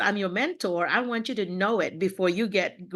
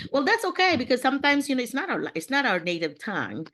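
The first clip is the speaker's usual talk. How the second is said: bright reassurance; 6 semitones higher than usual. Real, not acted. Reassuring after mistake.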